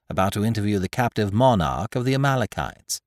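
ordinary delivery

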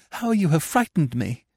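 high, breathing hard, shaken; breathless fright. A narrator's reading. Anna to Gurov on the staircase, breathless high fright. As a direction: gasp it out, still scared. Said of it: "breathing hard".

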